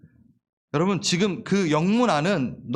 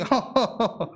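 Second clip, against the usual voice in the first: short demonstrated laugh, pitched up; dismissive laugh; 4 semitones higher than usual. Shown as a demonstration. Preacher showing how he would laugh off an insult, dismissive laugh. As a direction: laugh it off confidently. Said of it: "웃죠, 당연히".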